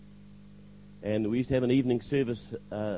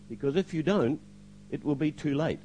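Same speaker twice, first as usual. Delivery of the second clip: retold warning at normal volume; firm warning; 3 semitones higher than usual. Voice speaks to him in church, firm warning. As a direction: give a clear, pointed warning.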